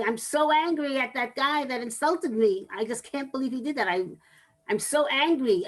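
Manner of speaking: demonstrated anger. Shown as a demonstration. Speaker models venting to the audience while punching a bag, demonstrated anger. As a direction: vent with emphatic, mock anger, without shouting. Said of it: "you say it with your voice".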